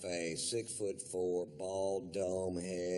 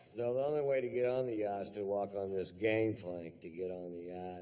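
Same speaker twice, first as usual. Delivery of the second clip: usual speaking voice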